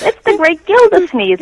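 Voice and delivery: high, loud cartoon crier voice; hammed-up cartoon announcement; cartoon announcer impression. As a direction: belt it like a Bugs Bunny cartoon barker. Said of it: "it's when Bugs Bunny goes".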